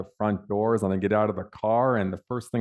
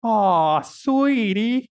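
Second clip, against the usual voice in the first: much higher, sugary cooing Aw; pitying receptionist; 12 semitones higher, 6 dB louder, much slower than usual. Retold or imitated. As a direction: coo at him like a small child. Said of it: "looks at my walking stick and goes".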